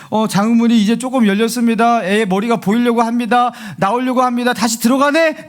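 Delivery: a touch of urgent medical commentary, pitch climbing; delivery-room announcer. Acted. Doctor reporting the birth's progress to the room, mildly urgent.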